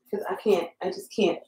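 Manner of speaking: breathy whispered give-up; whispered defeat. Real, not acted. Crafter overwhelmed by the resin, whispered defeat. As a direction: whisper that you can't.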